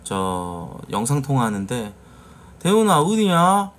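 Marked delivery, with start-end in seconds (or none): 2.6-3.7 Mokpo dialect. Retold or imitated. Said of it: "전북은 그런 말투고요".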